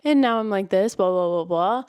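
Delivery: mock male narrator doing a girl's part; trying to be the girl. Shown as a demonstration. Reviewer showing a narrator playing the girl, put-on voice. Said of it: "you try to be the girl".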